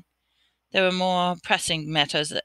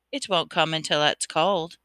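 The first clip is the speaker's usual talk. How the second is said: calm. Acted. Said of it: "said Riddle calmly".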